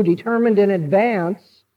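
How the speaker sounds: "in advance" picked out with deliberate weight; stress on in advance. Real, not acted. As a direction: put clear emphasis on "in advance". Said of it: "I stress in advance".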